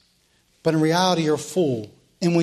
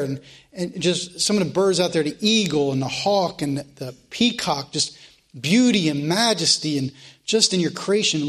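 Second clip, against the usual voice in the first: closing prayer. Real, not acted. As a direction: pray humbly over the class.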